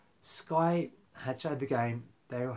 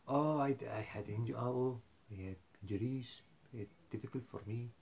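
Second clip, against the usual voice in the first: mock Mourinho. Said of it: "That sounds more like Poch".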